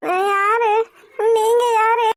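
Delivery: confused, tearful questioning. Acted. Injured girl asking who she and they are, tearful. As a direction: ask through mild crying, lost. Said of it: "அழுகாதம்மா பாப்பா".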